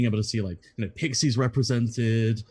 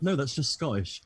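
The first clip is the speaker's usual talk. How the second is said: laughing; 3 semitones higher, 3 dB quieter than usual. Retold or imitated. Retelling his reply, laughing.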